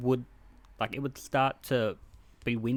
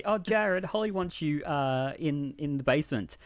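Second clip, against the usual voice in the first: fake innocent lure; 3 semitones higher than usual. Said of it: "She'd turn around and say".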